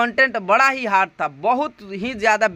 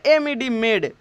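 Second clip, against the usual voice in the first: "एमईडी मेड" spelled slowly; slow spelling; slower than usual. Shown as a demonstration. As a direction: read it out slowly for learners. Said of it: "इसकी उच्चारण क्या हो जाएगी?". (धीमी वर्तनी)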